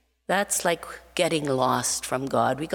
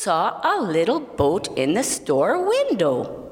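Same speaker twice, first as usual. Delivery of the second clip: put-on lively read-aloud narration for children; storytelling voice; 2 semitones higher than usual. A narrator's reading. Storyteller reading to children, in an expressive narrating voice. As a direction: tell it like a bedtime story with gentle rises.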